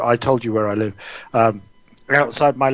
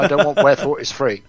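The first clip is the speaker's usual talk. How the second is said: laughing sarcasm. Acted.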